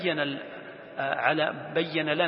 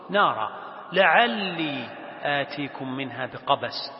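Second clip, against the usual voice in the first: slow, drawn-out verse reading; Quran recitation; slower than usual. Acted. Teacher continuing the verse for students, reciting slowly. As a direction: recite with lengthened vowels.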